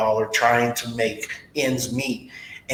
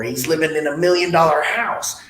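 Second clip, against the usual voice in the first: higher-pitched teasing imitation; mocking; 4 semitones higher than usual. Coworkers making fun of his big house, mocking. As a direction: poke fun with a raised, exaggerated lilt. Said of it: "you guys make fun of me going".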